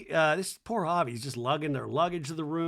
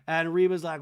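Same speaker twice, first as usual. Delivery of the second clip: ordinary talk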